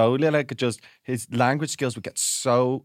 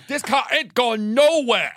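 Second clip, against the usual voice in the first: higher, slow, laughing through; repeated mock ultimatum, laughing; 11 semitones higher, 5 dB louder, slower than usual. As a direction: say it again, cracking up. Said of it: "and goes".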